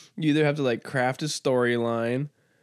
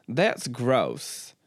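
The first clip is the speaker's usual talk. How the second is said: lightly put-on Southern drawl; Southern accent; 4 semitones lower than usual. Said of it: "I forgot to give you your accent".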